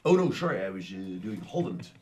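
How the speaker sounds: put-on Dutch accent. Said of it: "getting a bit Dutch".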